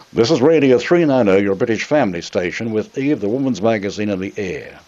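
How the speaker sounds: broad Australian accent on the station ident. Shown as a demonstration. To the station bosses, a broad Australian accent. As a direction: read it as a thick Australian would. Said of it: "A real Australian accent, you know, just like that".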